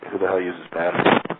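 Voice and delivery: retold scoffing question; lightly mocking, a touch incredulous; sarcastic. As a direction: imitate her mild sarcastic disbelief. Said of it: "like, being sarcastic".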